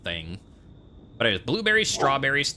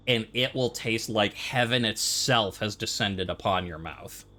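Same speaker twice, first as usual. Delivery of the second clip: ordinary talk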